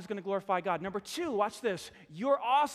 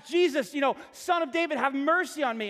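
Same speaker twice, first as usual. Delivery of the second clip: raised plea, pushing harder for mercy; screaming louder; 4 semitones higher, 4 dB louder than usual. Retold or imitated. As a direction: call out over the crowd. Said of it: "kept screaming more and louder".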